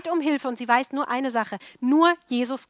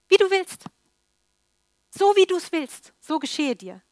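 delighted emphasis; 7 semitones higher, 6 dB louder than usual. Real, not acted. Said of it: "ein ganz starker Satz".

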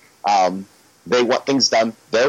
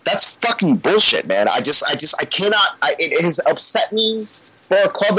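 ranting; 4 semitones higher than usual. Real, not acted. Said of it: "I'm a little ranty".

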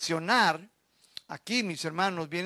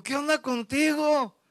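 retold question; 7 semitones higher than usual. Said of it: "Y le digo".

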